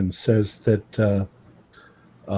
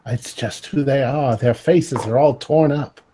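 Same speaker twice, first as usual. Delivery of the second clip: put-on Cockney accent; 3 semitones higher than usual. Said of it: "I have a, like, a Cockney accent".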